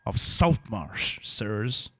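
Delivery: hushed, drawn-out warning; spooky bard warning. Acted. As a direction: warn them off in a creepy drawl. Bard warns of haunted house.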